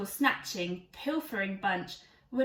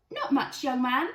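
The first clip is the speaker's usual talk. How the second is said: put-on old granny voice; 4 dB louder than usual. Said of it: "said Criminal Gran".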